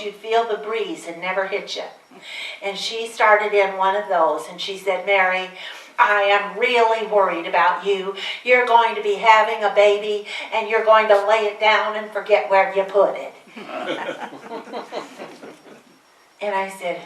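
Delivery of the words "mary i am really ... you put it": scolding mother. Retold or imitated. Mother scolding with wagging finger.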